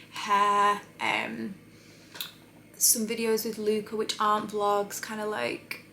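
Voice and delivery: talking while lining lips; words slightly distorted by lip liner; while doing lip liner. Real, not acted. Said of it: "trying to talk and do lip liner is a struggle".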